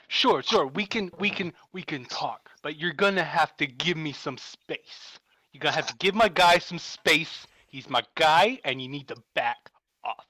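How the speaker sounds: halting, choppy crayfish warning; Christopher Walken. Acted. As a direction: lightly do the celebrity voice, standing your ground. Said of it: "I'm just full on Christopher Walken".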